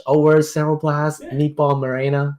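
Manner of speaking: slow, laughing tease; teasing him over his order; mock teasing quote. Scooter teases him about the sandwich, slow and amused. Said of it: "He's like, he's like".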